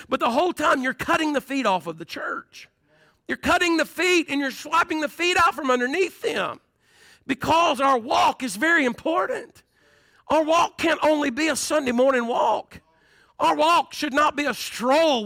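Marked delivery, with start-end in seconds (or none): 3.3-15.2 fiery pulpit shout; preaching shout. Real, not acted. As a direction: build it up and call it out to the congregation. Preacher building to emphatic point.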